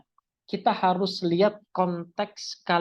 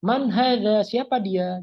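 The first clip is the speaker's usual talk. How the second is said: "Man hadza? Siapa dia?" asked with raised voice; questioning intonation; 4 semitones higher, 5 dB louder, slower than usual. Shown as a demonstration. Teacher showing it is asking, questioning intonation on "Man hadza". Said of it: "tapi dia bertanya".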